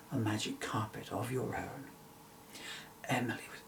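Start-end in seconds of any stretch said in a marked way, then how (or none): 0.1-1.8 hushed gift. Acted.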